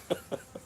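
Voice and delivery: short soft chuckle; real laugh. Real, not acted. Storyteller amused at his own escape, short laugh.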